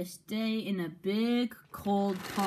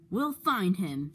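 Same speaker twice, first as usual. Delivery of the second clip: confident; slower than usual. Acted. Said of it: "said Gordon confidently".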